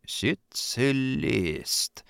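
very slow, mournful stage whisper; theatrical whisper. A narrator's reading. Afrikanov aghast at a worker's insolence, mournful stage whisper. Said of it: "скорбно прошептал Африканов громким театральным шёпотом".

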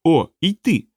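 high, timid little voice; trembling creature. A narrator's reading. Little creature answers Rokanon, still trembling, high voice. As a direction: squeak as a small frightened creature. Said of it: "все ще тремтячи".

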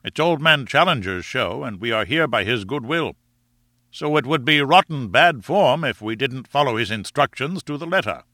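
lightly voiced lord, lilting up and down; a touch of friendly reproof; reasonable sporting lord. Lord defends the absent man's rules, mildly reproving.

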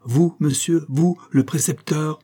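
indignant disbelief. A narrator's reading. Outraged uncle challenging the tutor, indignant disbelief. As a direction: throw it back in affronted disbelief.

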